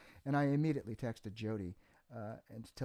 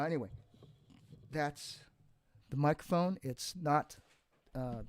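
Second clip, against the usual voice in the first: speaking through heavy reverb. Real, not acted. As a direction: voice with room echo. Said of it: "Sorry for the reverb on my voice".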